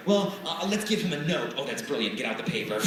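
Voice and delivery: hammed-up girls plotting in a huddle; mock giddy schoolgirls. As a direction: play the scheming girlfriends, half joking. Girls plotting a note together.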